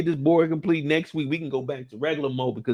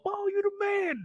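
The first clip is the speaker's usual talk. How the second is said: mock fan praise; 6 dB quieter than usual. Mimicking fans praising Mo.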